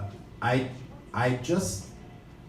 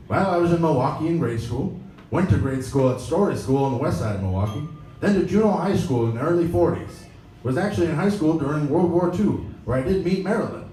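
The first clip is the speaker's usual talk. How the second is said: Jim Lovell voice; 4 semitones higher than usual. Retold or imitated. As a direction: answer like a proud veteran astronaut. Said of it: "this is an interview with Jim Lovell".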